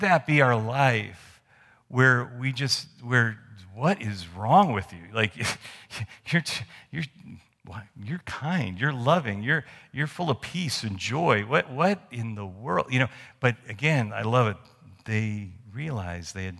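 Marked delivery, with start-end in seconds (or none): 3.7-12.9 amused, incredulous questions; mock bewilderment. An imagined onlooker puzzled by the believer's joy, mock bewildered. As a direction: play someone baffled by your joy.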